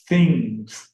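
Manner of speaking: "things" held and weighted, set apart; stress on things. Shown as a demonstration. Lecturer isolating the stressed word, deliberate emphasis. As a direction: land hard on "things" then pause. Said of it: "which is stressed".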